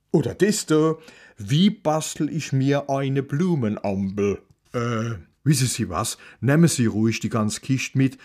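leicht gespielter pfälzischer Bibliothekar, etwas lauter; mürrisch-direkt, wie ein alter Mann vom Dorf; grummeliger Bibliothekar. Acted. Librarian figure offers books. (Bibliothekar brummt Kommissar an, leicht gespielt)

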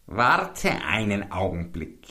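langsam und leiser, lauernd; listige Hexe. A narrator's reading. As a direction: die Hexe hält ihn lauernd zurück. Hexe bietet Abschiedstrank an. (leise lauernde Hexenstimme)

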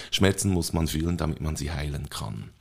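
softly recited movie wisdom; quiet wise quote. Retold or imitated. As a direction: say it gently like a wise healer. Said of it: "und dann kommt das Zitat".

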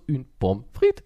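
flat robotic mock French. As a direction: say it like a stiff robot. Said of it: "bei dir klingt es einfach nur so".

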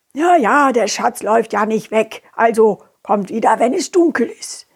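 sleepy, grumpy mole voice; grouchy creature just woken. Acted. Mole sends them away.

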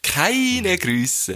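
Keine pitched high and stressed. Shown as a demonstration. Host corrects the phrase, stressing Keine. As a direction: lean hard on Keine. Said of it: "Nein, keine liebe".

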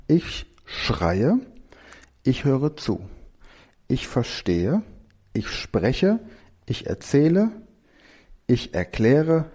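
each verb set apart, slow and clear; slow dictation. Acted. Teacher slowly dictating verbs to class for mindmap.

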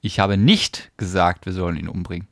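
"nicht" punched, the rest light; stress on NICHT. Shown as a demonstration. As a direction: lean hard on "nicht". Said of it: "Und jetzt betonst du das Wort?".

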